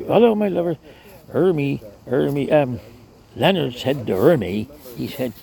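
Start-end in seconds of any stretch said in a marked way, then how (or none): 0.0-0.8 higher, sing-song hello to the passing lads; Ermy's greeting. Retold or imitated. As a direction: call down cheerily from the window ledge, pitched well up. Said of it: "everybody was her lover".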